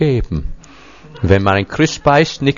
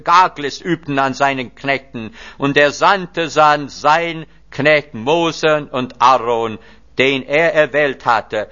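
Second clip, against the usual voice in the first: raised, solemn psalm recitation; prayer reading; 2 semitones higher than usual. Acted. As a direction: read the psalm as a prayer to the congregation. Psalm continued. (feierliches Psalmgebet)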